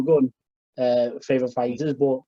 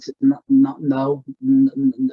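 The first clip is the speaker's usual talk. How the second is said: louder, tripping over the words; excited stammer; 6 dB louder than usual. Real, not acted. Host to his co-host about McGregor hype, louder excited stammering. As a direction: stammer it out, too worked up to finish a word. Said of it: "was anyone speaking like this?".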